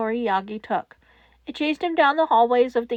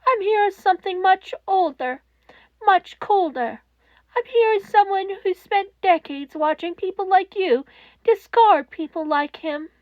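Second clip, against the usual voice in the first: cold accusation; 6 semitones higher, 3 dB louder than usual. A narrator's reading. Netsu confronts Toshinori.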